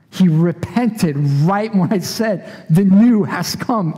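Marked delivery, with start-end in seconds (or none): 2.7-4.0 louder repeat. Retold or imitated. Preacher repeats the verse.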